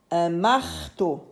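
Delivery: marteau slowly, the R held; sounded-out word. Shown as a demonstration. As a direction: draw out "mar" then "teau" in "marteau". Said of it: "la syllabe to et la syllabe mar". (marteau lentement, mar allongé)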